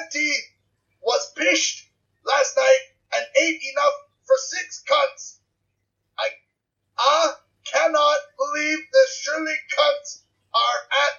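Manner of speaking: slow, halting, bad Scottish accent; amateur Scottish accent that slips into Canadian; attempted Scottish accent. Shown as a demonstration. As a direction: sound out a Scottish accent word by word. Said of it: "Do you mind if I try a Scottish accent? I'm terrible at it".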